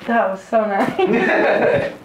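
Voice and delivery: slow, laughing and blissed out; relieved laughing. Real, not acted. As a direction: melt into it and laugh. Sigh of relief after the adjustment.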